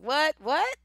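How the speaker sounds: high, loud questioning double-take; mock-incredulous, loud rising question; incredulous what. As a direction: act baffled, pitching each word up sharply. Acted reaction to accented caller.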